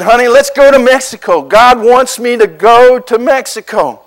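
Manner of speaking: bursting to tell his wife the plan; eager announcement. Retold or imitated. Husband telling his wife God wants them in Mexico, eager and quick. Pastor tells wife God's call.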